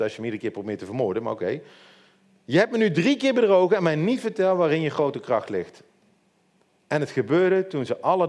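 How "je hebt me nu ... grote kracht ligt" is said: higher-pitched, mildly indignant complaint; acted reproach. Delilah confronts Samson after three lies, reproachful. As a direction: accuse him, starting high and easing down.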